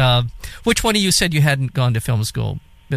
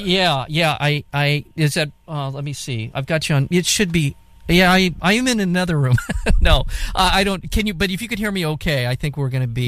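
from another room; 3 semitones higher than usual. Real, not acted. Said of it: "sounded so far away".

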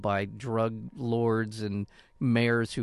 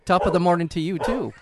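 higher, louder hammed-up Irish accent; stage Irish accent; 6 semitones higher, 7 dB louder than usual. Co-host tries a better Irish accent, hammed-up Irish. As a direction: greet them like a stage Irishman. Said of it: "that's a better Irish accent".

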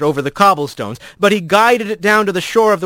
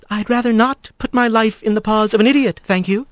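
haughty; 6 semitones higher than usual. Acted. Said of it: "Corin sniffed and turned away".

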